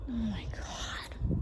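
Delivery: drawn-out whispered oh my God; slow shocked whisper. Real, not acted. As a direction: let it slip out in disbelief. Shocked at grave contents, whispered.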